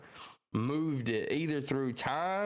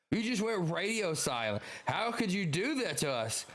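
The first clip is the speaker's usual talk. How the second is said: higher-pitched hurt scolding, lightly voiced; scolding comrade; 6 semitones higher than usual. Comrade scolding Sabo for going radio silent, higher and hurt. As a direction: complain like a worried friend who was left hanging. Reading a character's lines.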